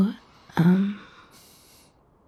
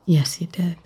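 teasing whisper. Acted. Woman teasing her date about his move, whispered. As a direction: whisper it like you caught him out.

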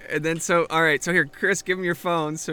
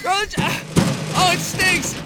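panicking gamer; 11 semitones higher, much slower than usual. Acted. Disgusted panic.

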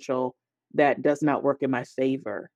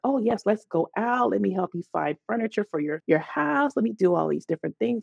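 mock friendly coworker; 5 semitones higher than usual. Coworker's early friendly offers.

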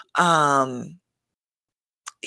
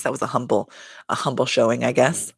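understated sarcasm, slightly lowered; sarcastic; 3 semitones lower than usual. Real, not acted. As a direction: offer faint praise you don't really mean. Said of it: "I'm saying that sarcastically".

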